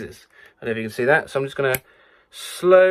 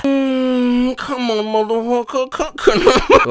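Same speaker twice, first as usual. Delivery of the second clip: South African accent; 7 semitones higher, slower than usual. Shown as a demonstration. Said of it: "Do with accent and crescendo".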